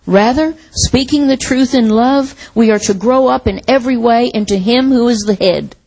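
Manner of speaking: measured reading aloud in phrases; scripture reading. Real, not acted. Preacher reading Ephesians to the church, measured scripture reading. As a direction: read the passage out to a congregation, phrase by phrase.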